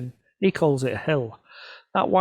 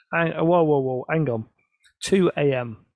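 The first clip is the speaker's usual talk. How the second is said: louder, half-joking protest at the early start; a touch of retold outrage; mock disbelief; 4 dB louder than usual. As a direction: hang on, two in the morning?. Reacting to a 2 AM pickup.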